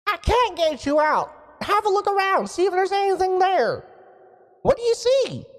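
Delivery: high, booming wizard from afar; a surprised wizard calling into the device; booming mage voice. Acted. Mage voice continues.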